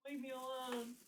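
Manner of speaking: drawn-out mock complaint, held on one note; joking whine to a teasing coworker; playful plea. Playful plea to coworker, then explained.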